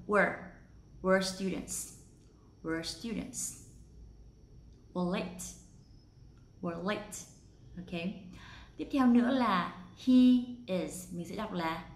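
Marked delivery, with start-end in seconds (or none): 0.1-7.1 "Were" as one quick syllable; contracted we're. Shown as a demonstration. Teacher demonstrating the contraction, we are as "Were". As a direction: say "Were" exactly like the past tense of be. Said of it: "giống như hệt như vậy luôn".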